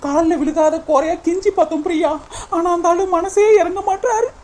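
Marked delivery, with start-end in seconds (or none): 2.6-4.3 crying, high-pitched. Acted. Sister retells being thrown out.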